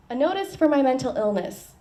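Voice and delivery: lifted, deliberate reading of "A notice for my mental illness"; poem title in a performance voice. Acted. Poet starting her poem by announcing "A notice for my mental illness". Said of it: "I have a poem called".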